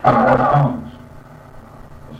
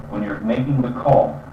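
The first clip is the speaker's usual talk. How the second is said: ordinary talk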